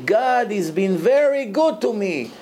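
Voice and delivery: slow and savoring, rising on the Hebrew; drawn-out quote of the addict. Retold or imitated. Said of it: "אומר לי".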